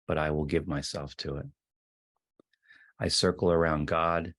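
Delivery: measured recital with pauses between lines; poem reading. Acted. Teacher reading Rilke's poem to a gathered group, measured recital. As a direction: read each line of the poem deliberately, letting it settle. Reads the poem a second time.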